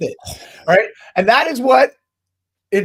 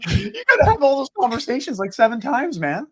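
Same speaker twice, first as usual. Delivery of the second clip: excited disbelief; 9 semitones higher, 5 dB louder than usual. Retold or imitated. Joking disbelief at seven kids.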